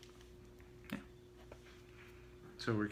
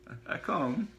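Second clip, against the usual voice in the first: put-on higher hesitant accented stammer; nervous quaver; 6 semitones higher, slower than usual. Gas man reassuring Otto, nervous accent. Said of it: "he quavered".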